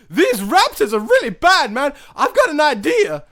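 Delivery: high, loud goofy stoner voice; doing a dopey surfer dude character. Acted. Acting out stoner raptor handlers.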